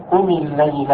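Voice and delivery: "قم الليل" run together with no alif sound; alif dropped. Shown as a demonstration. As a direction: link "قم" straight into "الليل", skipping the alif. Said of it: "لا ننطق بالألف لأنها سقطت".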